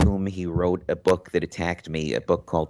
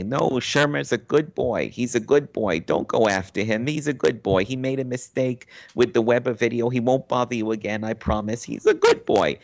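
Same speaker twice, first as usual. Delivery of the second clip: lightly voiced soothing mother, a bit higher; like mommy; 5 semitones higher than usual. Grobman calls Rubin to defend Shermer, mild motherly voice. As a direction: defend him like a mother vouching for her boy. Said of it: "step in like mommy".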